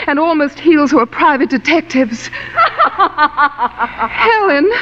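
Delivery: bitter laugh. Acted.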